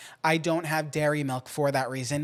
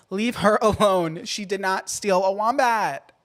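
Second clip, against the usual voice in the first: laughing; 3 semitones higher, 5 dB louder than usual. Real, not acted. Defending friend, laughing.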